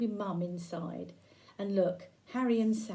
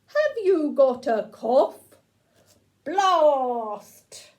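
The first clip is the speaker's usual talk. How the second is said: slow, louder robot voice asking then firing; a toy robot booming its blast at story time; 3 semitones higher, 8 dB louder, much slower than usual. Acted. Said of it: "So it was a blasting robot".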